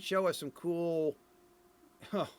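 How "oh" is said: a real burst of laughter breaking in; can't hold back a laugh at the screen. Real, not acted. Reviewer laughing at the game footage, real laugh. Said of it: "Forgive me, I'm laughing a little bit here".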